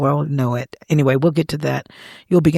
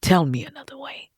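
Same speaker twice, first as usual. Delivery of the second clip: whispered plea; 3 dB quieter than usual. Retold or imitated. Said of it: "I said".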